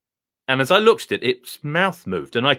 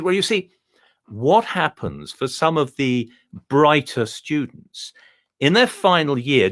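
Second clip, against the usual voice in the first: posh dog voice. Acted. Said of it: "speak like this".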